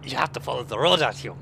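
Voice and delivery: lightly put-on Russian accent; a touch of mock Russian. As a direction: voice a Russian game character guiding a comrade. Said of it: "until I sound kind of like something from Metro".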